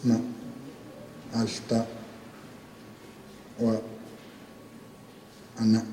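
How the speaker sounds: "Ma, alta, wa, ana" in isolated chunks with long pauses; phonetic breakdown. Shown as a demonstration. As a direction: sound out "Ma, alta, wa, ana" piece by piece, no k. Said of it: "fonéticamente probablemente sería así".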